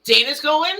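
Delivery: high, loud disbelief; surprised. Real, not acted. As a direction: ask it amazed. Surprised question at news.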